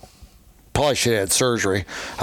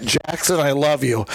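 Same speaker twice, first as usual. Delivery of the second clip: put-on toddler calling out; 4 semitones higher than usual. Grandpa retelling toddler's call to Jackson, light child voice. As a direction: pipe it out like a tiny fan.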